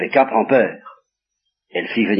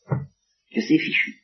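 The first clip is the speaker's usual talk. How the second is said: souffle résigné; 5 dB quieter, slower than usual. Acted. Isaac feels all is lost.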